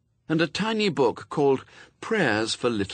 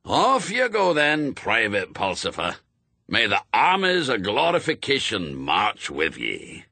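put-on old Scots sergeant, grand send-off. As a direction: send the lad off like a general. Shadwell sends him off.

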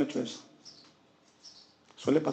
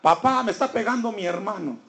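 acted child's complaint, higher-pitched; mild mock yell, tattling to dad; 5 semitones higher than usual. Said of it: "comienza a gritar". (niño acusando a gritos fingidos, voz aguda)

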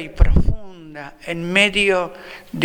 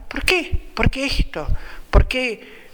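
incredulous question; 7 semitones higher than usual. Acted. Jesus questions the disciples.

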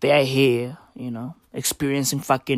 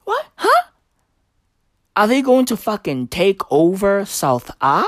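mock panic at the sight of the flag; mock alarm; 3 semitones higher than usual. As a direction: play a startled double take. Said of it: "I was like".

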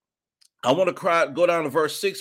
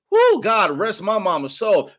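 moved praise; 2 semitones higher, 6 dB louder than usual. Real, not acted. Remembering late mother in praise.

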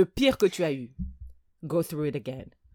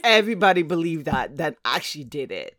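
usual speaking voice

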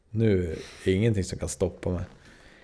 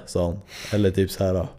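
ordinary talk

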